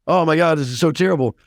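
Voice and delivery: high, dismayed cry of horror; retold anguish. Fireman recalling his old horror at a child's death, high and stricken. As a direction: sound stricken by the tragedy.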